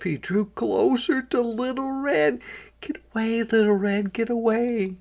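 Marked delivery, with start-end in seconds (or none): 2.8-4.9 urgent warning. A narrator's reading. Narrator warns chick in story.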